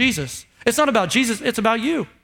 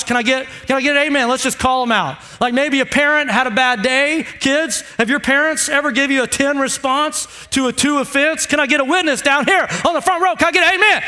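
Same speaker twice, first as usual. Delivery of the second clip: booming motivational speech. Real, not acted. Calling the congregation for amens.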